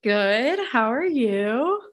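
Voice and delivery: slow, drawn-out meeting greeting; work meeting voice. Real, not acted. Host greeting her sister as if joining a meeting, work voice. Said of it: "joining a meeting at work voice".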